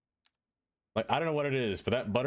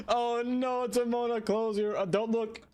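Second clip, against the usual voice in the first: shrieking up high in embarrassed panic; oh no, don't look, squealed way up high; flustered high-pitched alarm; panicked high squeal; 13 semitones higher, slower than usual. Real, not acted.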